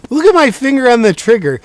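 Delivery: loud, high mock Southern gun nut; hammed-up gun owner. Clip of himself mocking gun owners, loud and high.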